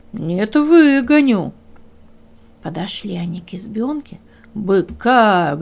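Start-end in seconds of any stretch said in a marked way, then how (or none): 0.1-1.5 slow, louder insistence; stubborn bull. Acted. Bull insists he will drive the fox out, slow.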